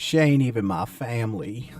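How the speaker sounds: a lightly put-on redneck twang. Friend mocking in a put-on hick twang.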